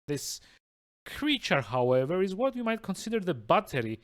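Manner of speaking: smug, theatrical villain monologue; a lightly voiced gloating villain. Reads villain monologue aloud.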